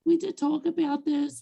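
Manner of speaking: hoarse, failing voice; losing voice. Real, not acted. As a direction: rasp through a voice that's giving out. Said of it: "I'm losing my voice".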